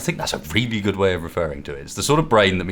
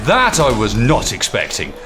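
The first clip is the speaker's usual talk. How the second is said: excited; 3 semitones higher, 4 dB louder than usual. Real, not acted. Ambushed, reacting.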